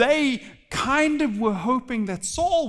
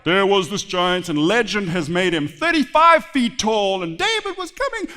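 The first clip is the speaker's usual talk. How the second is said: mock legend telling; 4 dB louder than usual. Preacher parodies a fantasy tale for the congregation, mock-epic. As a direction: spin it like an overblown legend.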